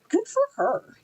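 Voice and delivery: cheering. Retold or imitated. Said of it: "And I'm like".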